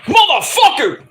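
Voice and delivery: imitated outraged yell, high-pitched; high, furious mock curse; Aaliyah. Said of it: "and then Aaliyah's like".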